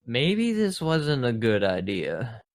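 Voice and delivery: slow Southern drawl; Southern accent. Acted. Player voicing the stormbound hero, Southern accent. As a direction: say it slowly, with a hint of Southern. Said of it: "Southern accent".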